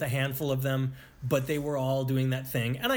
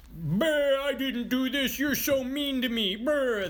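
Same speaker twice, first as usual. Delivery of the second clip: mock angry yell; 12 semitones higher, slower than usual. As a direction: sputter like a furious man caricaturing himself. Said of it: "And when he yells".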